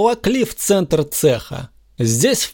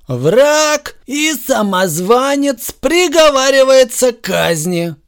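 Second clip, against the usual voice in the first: slow, high, ceremonial proclamation; solemn verdict voice; solemn announcement; 10 semitones higher, 3 dB louder, slower than usual. A narrator's reading. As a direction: proclaim like a judge. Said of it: "торжественно объявил Супермен".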